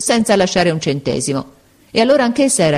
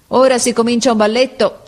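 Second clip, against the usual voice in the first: higher-pitched calling out; sailor's call; 6 semitones higher, 3 dB louder than usual. A narrator's reading. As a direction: call out in passing. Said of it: "Gridò il marinaio italiano".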